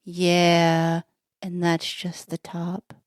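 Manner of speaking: lightly voiced stoner, low and trailing off; slow down as if mildly stoned. One stoner answers the other, lightly voiced slow stoner. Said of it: "The other stoner says".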